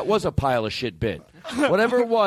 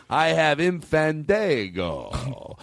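slow, drawn-out proclamation, rising at the end; grand announcement; much slower than usual. Pretend. Host showing off for reverb, grand drawn-out announcement. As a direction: stretch it out as if for reverb.

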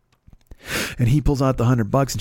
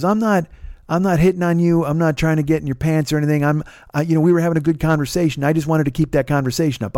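higher, eager, insisting he means no harm; higher-pitched rambling guy talking himself up; pushy stranger; 4 semitones higher than usual. Retold or imitated. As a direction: overeager man defending himself to the rider. Quoting the pushy stranger's rant.

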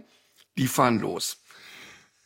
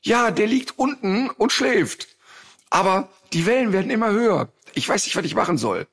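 panicky friend; 7 semitones higher than usual. Retold or imitated.

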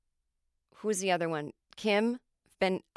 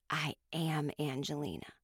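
softer, leaning-in reveal; confiding hush; 4 semitones lower, 7 dB quieter than usual. Retold or imitated. Boston lady confiding to him over her glasses, soft hushed reveal. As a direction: drop it low like a secret. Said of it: "she leaned in, looked at me over her glasses".

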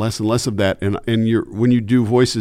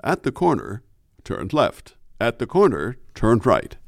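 driver's ed film. Retold or imitated. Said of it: "sounded like the guy in the driver's ed films".

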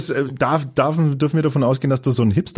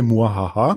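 evil chuckle. Acted. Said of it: "wie ich es mir schon immer gewünscht habe".

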